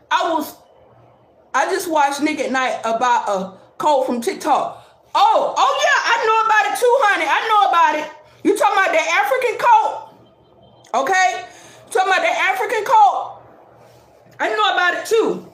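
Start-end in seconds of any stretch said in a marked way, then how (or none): 5.1-15.5 jumping in with I know; animated, quick recognition; excited. Real, not acted. Excited reply about the cult.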